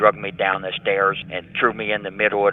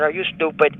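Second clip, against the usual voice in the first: scornful retort; 7 semitones higher than usual. Retold or imitated. Confronting the officer.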